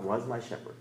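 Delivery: "was" picked out, the rest falling softly; stress on "was". Shown as a demonstration. Preacher rejecting the past tense, stress on "was". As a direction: lean on "was", then drop away. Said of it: "you emphasize different words".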